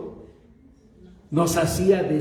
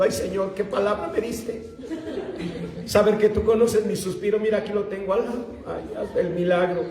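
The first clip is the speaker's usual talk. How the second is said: a lightly voiced, giggly girl praying for her crush; mock lovesick prayer; 2 semitones higher, faster than usual. Preacher mimicking a lovestruck girl's prayer, giggling. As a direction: tease the young ones with a swooning little prayer.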